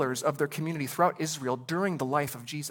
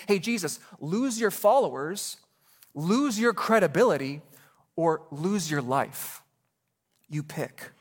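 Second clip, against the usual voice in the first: taunting challenge; 3 semitones higher, 3 dB louder than usual. Acted. Pharisees' trap voiced as quote.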